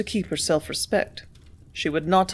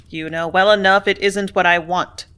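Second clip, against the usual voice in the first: rough, louder reproach; roughly; 6 dB louder than usual. Acted. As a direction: push it out harshly and louder. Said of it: "said the superintendent roughly".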